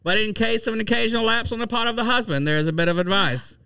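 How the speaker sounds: 1940s voice. Acted. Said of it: "That's my nineteen forties voice".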